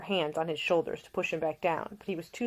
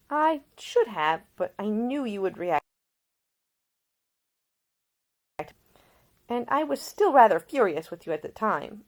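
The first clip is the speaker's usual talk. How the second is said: higher, louder earnest woman; Ida explaining; 6 semitones higher, 6 dB louder than usual. Acted. Ida tells Nick why she hid it, higher earnest voice. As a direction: defend the choice with lingering anger.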